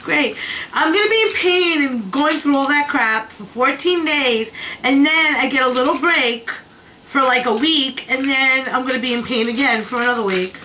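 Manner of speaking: sarcastic. Retold or imitated. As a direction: grumble it with mock cheer. Sarcastic complaint about side effects.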